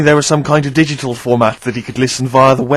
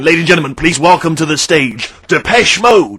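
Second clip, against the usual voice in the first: arena announcer; 2 semitones higher than usual. Retold or imitated. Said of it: "you can imagine someone saying".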